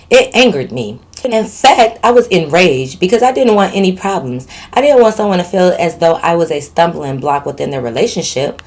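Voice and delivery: measured storytelling read; recounting a written story; letter read aloud. A narrator's reading. Reads out a listener's letter.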